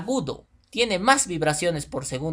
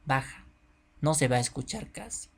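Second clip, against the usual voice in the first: softer demo; 6 dB quieter than usual. Shown as a demonstration. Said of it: "Otras van a tener bajita".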